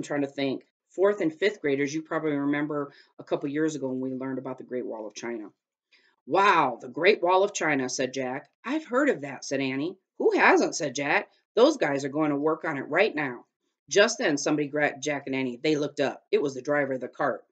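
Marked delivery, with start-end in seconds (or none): 6.2-17.4 lively chapter-book read-aloud; reading to children. A narrator's reading. Teacher reading a chapter book to her students, lively read-aloud. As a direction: read the story out to the class.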